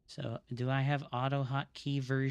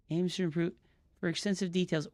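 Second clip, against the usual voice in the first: ordinary talk, nothing marked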